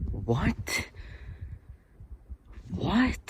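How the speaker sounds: high, sharp startled what. Real, not acted. Vlogger jolted by a noise, high startled question. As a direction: jump at the sound.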